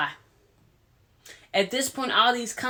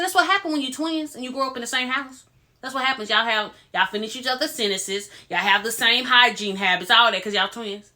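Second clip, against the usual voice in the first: teasing; 2 semitones higher than usual. Retold or imitated. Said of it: "I'm playing".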